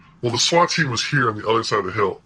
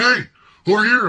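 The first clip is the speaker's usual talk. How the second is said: high, louder hail; imitated calling out; 12 semitones higher, 5 dB louder than usual. Lawyer hailing him from a car window, imitated call. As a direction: imitate someone hailing a friend from a distance.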